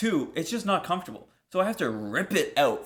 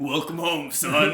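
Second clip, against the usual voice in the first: southern trucker mom; slower than usual. Pretend. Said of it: "Like a southern trucker".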